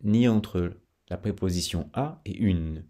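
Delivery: ordinary talk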